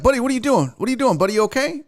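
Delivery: high-pitched pet-talk questions; retold concern. Owner checking on freaking-out cat, high retold concern.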